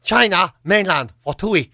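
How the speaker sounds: lightly put-on Chinese-English accent; a hint of Chinglish, word by word. John asks at the visa desk, light Chinglish accent. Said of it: "do the Chinglish thing".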